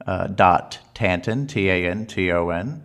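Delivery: slow, loud, over-polite caller spelling things out; schmaltzy phone voice. Acted. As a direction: lay the customer-service charm on thick. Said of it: "that was the phone voice cranked up as high as it can possibly go".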